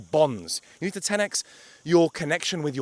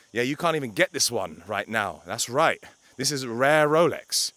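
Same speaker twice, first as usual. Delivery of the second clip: lightly voiced cocky younger self; a touch of smug swagger; mild mock bragging. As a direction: show off the Rolex, half-joking. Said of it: "thought to myself".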